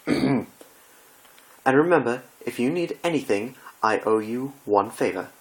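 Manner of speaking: high, anguished theatrical gasp; dismayed Rarity. Acted. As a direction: wail as if the world is ending.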